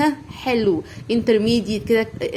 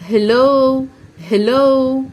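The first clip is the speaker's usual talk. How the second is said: هلو called out louder and higher; loud model word; 3 semitones higher, 6 dB louder, much slower than usual. Shown as a demonstration. Teacher to kids, calling هلو out loud. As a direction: call out هلو loudly for the class. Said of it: "بقول له هلو".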